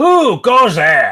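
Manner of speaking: rough, gruff, very high shout. Narrator voicing a figure balanced on a boulder, calling down: gruff shout. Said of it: "A gruff voice shouts down from the rock".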